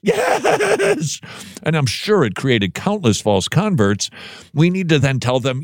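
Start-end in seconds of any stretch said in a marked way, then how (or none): 0.0-1.2 laughing yes. Pretend. Mocking the convert's eager reply.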